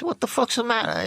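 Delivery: calling through the door. Retold or imitated. Yelling at friend through door.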